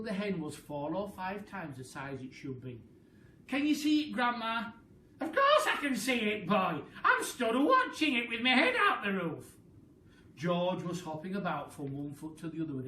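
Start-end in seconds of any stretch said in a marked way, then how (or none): 3.5-4.7 high, loud calling up; eager call. Acted. George calling up. 5.2-9.6 louder, higher snappy reply; tart Grandma. Acted.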